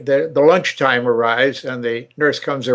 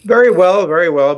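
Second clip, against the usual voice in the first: hearty reply; 5 semitones higher, 5 dB louder than usual. Real, not acted. Enthusiastic reply.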